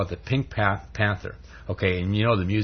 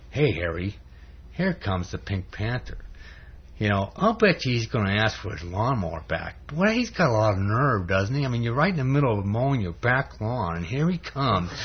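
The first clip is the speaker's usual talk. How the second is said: lightly voiced sly devil; devil's voice. Devil stirring up Harry against his neighbour, devil's voice. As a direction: egg him on, a hint of mischief. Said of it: "the devil goes up to, over to Harry".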